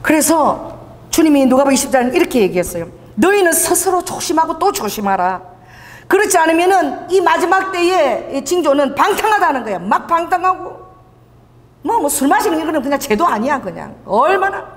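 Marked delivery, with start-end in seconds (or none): 3.2-9.8 solemn reading of the verse; preaching quote; scripture recitation. Acted. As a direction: proclaim it as scripture. Quoting scripture.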